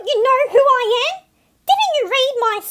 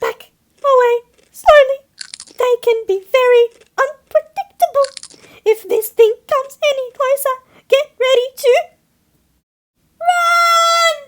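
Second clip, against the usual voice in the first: higher, louder, urgent alarm; frightened warning; 4 semitones higher, 6 dB louder than usual. Acted. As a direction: warn everyone to flee. Seagull warns about the child.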